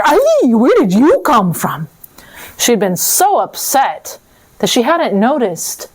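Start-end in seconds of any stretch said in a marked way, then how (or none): 0.0-1.9 high startled ay. Acted. Death caught off guard by a farmer, startled cry. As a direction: jump with surprise.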